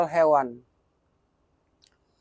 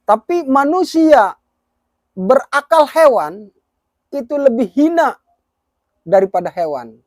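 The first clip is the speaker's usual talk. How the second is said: raised, forceful preaching voice; emphatic preaching; 4 semitones higher, 4 dB louder than usual. Real, not acted. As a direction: drive the point home loudly. Preacher repeats point emphatically.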